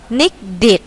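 "needed" ending in a clear -id syllable. Shown as a demonstration. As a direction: sound the -ed of "needed" as "id". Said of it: "đằng sau chữ tờ đờ đọc là it". (đọc đuôi "needed" thành "it")

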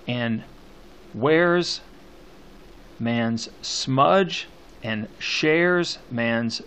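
very slow verse, each stressed word set apart; poem scansion reading. Shown as a demonstration. Teacher showing the internal rhyme, slow emphatic recitation. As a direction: linger on each stressed word, with long pauses. Reads the poem while scanning.

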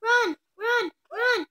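alarmed high yells to run; panicked shouting. Real, not acted. Sister yelling at her sibling to flee the creeper, panicked. Kids fleeing a creeper in game.

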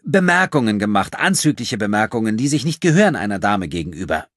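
put-on high, loud, affronted girl; indignant. A narrator's reading. Thief claiming offended ladyhood, indignant. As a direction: start high and outraged, easing slightly.

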